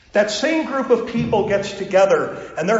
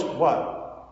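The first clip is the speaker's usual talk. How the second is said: breathy whispered, lower "What?"; 7 semitones lower, 5 dB quieter than usual. Acted. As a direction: answer in a hushed whisper, caught off guard. Peter answers God, startled.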